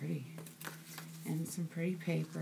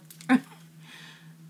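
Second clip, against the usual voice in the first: teary laugh; 5 dB louder than usual. Real, not acted. Tearful laugh at gift.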